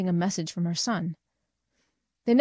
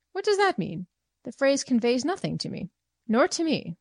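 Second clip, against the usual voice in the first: puzzled; 6 semitones higher than usual. Acted. Friends puzzled by the phrase.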